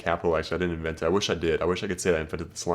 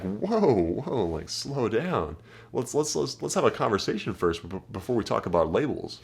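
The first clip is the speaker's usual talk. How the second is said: teasing comeback. Shown as a demonstration. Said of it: "It's a hilarious comeback to do to girls".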